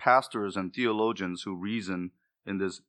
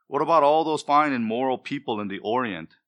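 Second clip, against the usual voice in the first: lightly voiced protest, louder on the opening; reasoning objector; 3 semitones higher, 5 dB louder than usual. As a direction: mimic a mildly indignant religious objector. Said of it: "They all talk like this".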